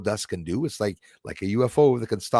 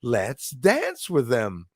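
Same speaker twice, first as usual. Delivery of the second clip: slow, higher, drawn-out imitation; imitating dancing Gina; 5 semitones higher, 4 dB louder, slower than usual. Host imitating dancing Gina inviting orbs to dance, lilting. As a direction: stretch the words in a lilting, put-on woman's voice. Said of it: "She's saying".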